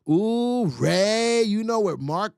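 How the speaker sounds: high, loud excited call-out; excited ooh. Real, not acted. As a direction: burst out to the chat.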